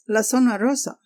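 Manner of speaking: "La Zona Rosa?" as a disbelieving question rising at the end; incredulous repeat. Retold or imitated. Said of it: "And he says".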